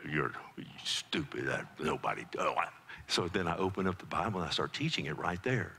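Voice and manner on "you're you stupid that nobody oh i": put-on kids scoffing. Kids' church answering preacher.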